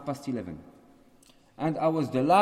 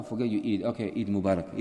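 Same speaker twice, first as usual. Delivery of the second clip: low, offhand mock greeting; grudging, low-pitched well-wishing; dismissive greeting; 7 semitones lower, 4 dB quieter than usual. Shown as a demonstration. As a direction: toss the greeting away carelessly. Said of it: "If he talks, you say".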